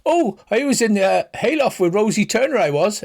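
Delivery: a lad blurting out the truth under the spell; dopey farm lad. Acted.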